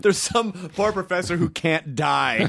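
put-on drawn-out European accent, laughing; hammy vague European accent, slow and lilting; weird European accent. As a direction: play an old European professor, stretching the words. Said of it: "I made it weird European".

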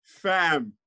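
attempted London slang accent; British accent. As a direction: try a clipped-in British street accent, playfully. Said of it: "get a good British one".

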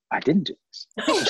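high, laughing "I didn't do this"; a high, laughing protest of innocence; mock shocked innocence. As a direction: play it as stunned, half-laughing disbelief. Retold shocked reply on set.

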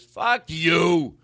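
imitated New York comeback; New York accent. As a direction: snap back like an offended New Yorker. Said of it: "In whatever his accent was".

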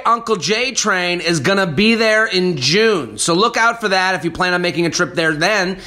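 upbeat promo announcement; ad read. Acted. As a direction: sell it like a radio spot. Reads club ad.

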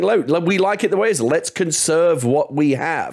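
high, slow mocking voice of a conservative. Guest mocking conservatives: high, slow caricature. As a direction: play the cautious conservative, drawn out. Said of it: "conservatives are saying".

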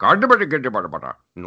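run-on gibberish muttering; mock someone grumbling in gibberish; imitated muttering. Traveler mimicking the wheelchair pusher's grumble, muttering. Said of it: "he's muttering under his breath".

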